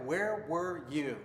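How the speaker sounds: slow, measured accusation; accusing. Shown as a demonstration. Husband quoting his question to his wife, accusingly. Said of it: "accusational sort of tone".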